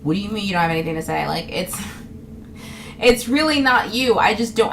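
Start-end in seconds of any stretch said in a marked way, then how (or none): 0.0-1.3 rapid offended question; mock offended. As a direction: imitate someone taking offense, fast and low-key. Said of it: "like, offended".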